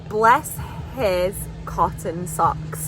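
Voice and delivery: each word of "Bless his cotton socks" drawn apart; slow model phrase. Shown as a demonstration. Accent coach modelling "Bless his cotton socks", slow and separated. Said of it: "Okay, say".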